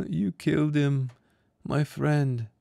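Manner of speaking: put-on high child's voice, accusing; a small boy hurt and blaming; grieving boy. A narrator's reading. The boy accusing Jurin of killing his friend.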